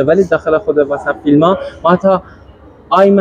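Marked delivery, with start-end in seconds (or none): 2.9-3.2 آیم as one syllable "aim", diphthong kept; contracted form. Shown as a demonstration. Teacher contrasting film pronunciation, آیم contracted to one syllable. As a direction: run it together into آیم, keeping the glide. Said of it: "آیم هم نمیشنویم".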